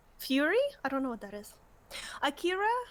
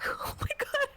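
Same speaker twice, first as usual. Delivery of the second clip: high breathy squeal of delight; squealing excitement; 11 semitones higher than usual. Real, not acted. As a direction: gush like it is too cute. Gushing over cute Wooloo.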